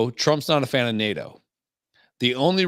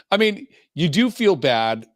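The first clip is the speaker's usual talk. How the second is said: "do" pushed up and louder; stress on do; 7 semitones higher, 4 dB louder than usual. Shown as a demonstration. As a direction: lean on the word "do". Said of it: "This is how I talk to my therapist".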